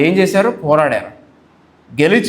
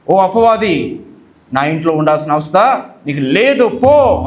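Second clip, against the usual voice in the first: commanding rebuke; 3 semitones higher, slower than usual. Shown as a demonstration. Preacher showing the congregation how to rebuke, with a forceful command. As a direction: order the devil out, building to a shout on the last word. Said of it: "అని చెప్పి మనం గద్దించాలి".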